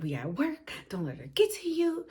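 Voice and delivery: soft whisper to herself; whispered self-talk. Retold or imitated. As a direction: hush it, just for yourself. Self-talk to stay calm.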